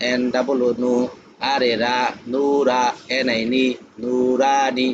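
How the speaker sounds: slow spelling drill building up to "নুরানি"; বানান করে পড়া. Shown as a demonstration. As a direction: spell each part, then join "নুরানি" in long, even beats. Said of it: "তারপরে তিনটে একত্রে পড়াইবেন". ("নুরানি" তিন ভাগে বানান করে, টেনে টেনে একত্রে)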